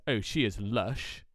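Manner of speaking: slow, lightly put-on West Country accent; a gentle hint of a West Country lilt; mock West Country accent. Guest imitates a West Country speaker, slow light West Country accent. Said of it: "someone from the West Country says".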